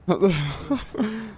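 short laugh. Real, not acted. Player reacting to the game, short real laugh.

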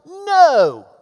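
a loud, firm no; emphatic no. Real, not acted. Preacher rejecting a shortchanged gospel, loud emphatic no. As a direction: slam the door on the idea.

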